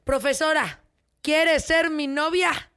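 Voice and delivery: put-on slow, drawn-out plea of a kneeling boy; pleading schoolboy. Schoolboy kneels before teacher, slow pleading proposal. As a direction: stretch out the proposal, begging. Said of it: "y le dice".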